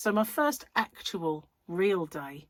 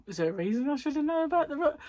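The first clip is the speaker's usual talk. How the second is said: giggling; 9 semitones higher, faster than usual. Real, not acted. Defending not knowing.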